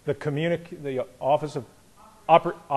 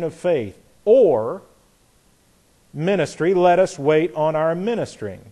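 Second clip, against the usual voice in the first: measured Bible reading, prepositions stressed; scripture reading with emphasis. Shown as a demonstration. Teacher reading Romans aloud to the class, measured and emphatic. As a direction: read the verse deliberately, leaning on each connecting word. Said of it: "emphasize the prepositions the way I did".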